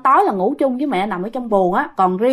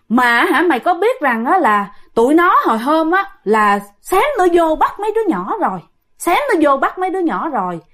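higher-pitched mock scolding of a son; retold scolding; 5 semitones higher than usual. Great-grandfather scolding his son over the children, retold scolding. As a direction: act out the ancestor's telling-off, pitch raised. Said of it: "ông la ba quá trời luôn".

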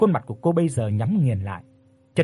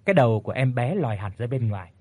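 ordinary delivery

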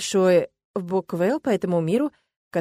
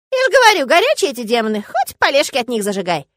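put-on high, louder complaining old man; 5 semitones higher, 7 dB louder than usual. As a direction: complain to a friend. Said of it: "пожаловался лесовик Урунгузу".

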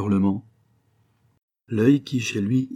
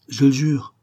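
frank; 5 semitones higher, 6 dB louder than usual. A narrator's reading. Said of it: "avec un accent de franchise".

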